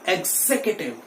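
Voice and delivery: 'executive' as eg-ZEK-uh-tiv, stress on zek; right pronunciation. Shown as a demonstration. Teacher has students repeat, right pronunciation eg-ZEK-uh-tiv. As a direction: stress zek in 'executive', weak vowel after it. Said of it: "एक बार फिर से बोलिए".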